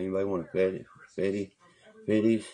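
rising hawker call, loudest at the end; calling out Petties to the inmates, rising to a shout. Retold or imitated. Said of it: "I call 'em Petties like that".

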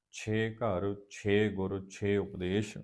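ਛੇ said with a drawn-out vowel; long vowel reading. Shown as a demonstration. Teacher shows the long reading of ਛੇ. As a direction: stretch the ਛੇ each time. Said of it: "ਲੰਮਾ ਉਚਾਰਨ ਕੀ ਬਣੇਗਾ".

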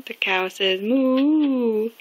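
slow picture-book voice; reading to a toddler. Acted. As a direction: read it slowly for a little one. Reading animal book to child.

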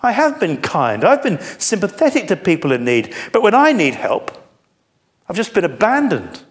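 a good man feeling abandoned; pained lament. Acted. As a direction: let the hurt climb on need help. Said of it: "Do you see, he's saying".

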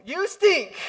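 put-on high loud childish jab; mock kid insult. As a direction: toss it like a bratty teen. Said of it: "Sorry for your young people".

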